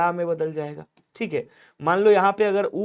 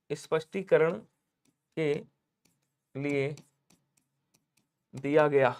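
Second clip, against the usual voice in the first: slow word by word; 5 semitones lower, 5 dB quieter, slower than usual. Shown as a demonstration.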